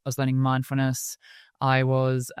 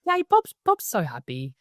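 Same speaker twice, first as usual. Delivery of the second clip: excited cheer; 6 semitones higher than usual. Retold or imitated. Cheering at home about Bob's progress, excited. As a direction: squeal it out with delight.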